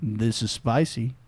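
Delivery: low, slow, soft soul-singer voice; a famous soul singer. Pretend. Answering the phone as the singer, deep slow voice. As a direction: sink deep and take it slowly, like a smooth crooner. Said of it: "Like, you answer the phone".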